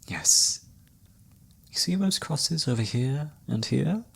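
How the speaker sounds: a lightly voiced mysterious fortune teller, teasing and unhurried; spooky flirty fortune teller. Fortune teller reads a traveler's palm late at night, lightly spooky and flirty. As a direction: read the traveler's fate like a seer with a sly, flirty edge. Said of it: "like, a sort of spooky, flirty vibe across".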